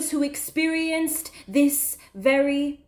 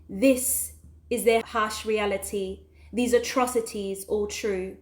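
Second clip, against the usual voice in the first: lower, softer, sombre ending; hushed closing; 4 semitones lower, 7 dB quieter than usual. Acted. Poet telling listeners it could have been them, hushed. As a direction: let it sink quietly to the final words.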